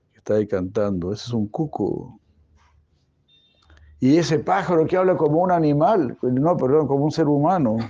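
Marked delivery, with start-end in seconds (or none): 4.0-7.8 put-on bright, eager child's question, pitched higher and louder; curious child asking. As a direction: play the excited little boy pointing at a bird. Niño pregunta a su madre. (niño curioso que pregunta emocionado)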